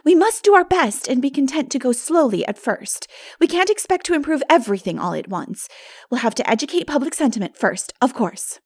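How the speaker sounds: lightly voiced earnest girl; Anne's voice. A narrator's reading. Narrator voices Anne.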